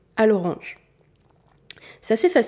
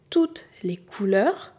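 whisper; slower than usual. Acted. Teacher reveals the secret.

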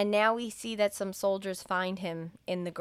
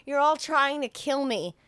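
panicked; 6 semitones higher, 5 dB louder than usual. Retold or imitated. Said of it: "He's like".

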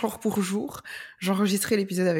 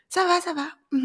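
automatic office small talk; 10 semitones higher than usual. Retold or imitated. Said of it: "le ça va comme les collègues".

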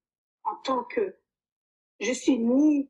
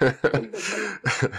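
grave, lent, noyé dans le rire; lâcher le mot en riant franchement; 8 semitones lower, much slower than usual. Real, not acted. Rit après la taquinerie. (exactement dit en riant)

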